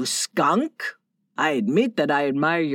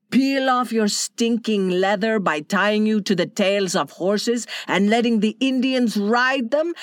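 shouting at the mestizos; 2 semitones higher than usual. Acted. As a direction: berate the traitors from above. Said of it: "Donna Maria shouted at the mutinous mestizos".

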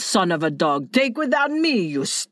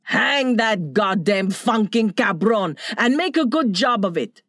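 higher, scornful angry tirade; furious Donna Maria; 5 semitones higher than usual. Acted. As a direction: sentence him with contempt. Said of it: "Donna Maria condemns the captain".

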